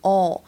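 "哦" drawn out, sounded further back in the mouth; long vowel. Shown as a demonstration. Teacher repeats the sound for learners, "哦" long and back. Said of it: "长元音的哦".

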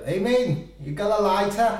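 slow, loud, high street slur; drunk Scouse accent. Retold or imitated. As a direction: ask for a light like a drunk Scouser. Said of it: "一般在街上你遇到要喝的就".

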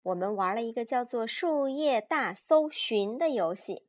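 put-on lively, measured read-aloud for small children; children's story narration. A narrator's reading. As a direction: read a picture book to a child.

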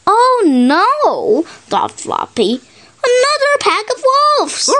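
high, quick frightened cry; scared thought. Acted. Floppy dreading another wolf pack, frightened and high. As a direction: gasp it out like a scared little dog.

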